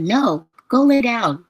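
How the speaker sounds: bossy best friend. Retold or imitated. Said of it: "And she said".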